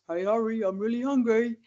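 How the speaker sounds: lightly voiced pleading dog; a hint of a hungry dog begging; dog's voice. Mum in the dog's voice asking Harry to feed it, lightly put-on. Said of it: "talk in the dog's voice".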